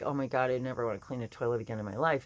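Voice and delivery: exasperated, through gritted teeth; fast, grumbling through clenched teeth. Retold or imitated. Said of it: "gritting my teeth like".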